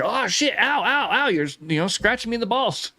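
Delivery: high-pitched mock yelping; mock pain. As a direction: play-act a guy hurt in the groin. Mimics game character hurt in groin.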